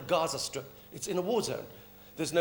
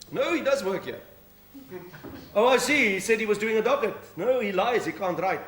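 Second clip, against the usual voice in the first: lightly voiced police sergeant answering the phone; policewoman on the phone; 2 semitones higher than usual. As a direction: play the duty sergeant taking a call. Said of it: "Sergeant Minnie".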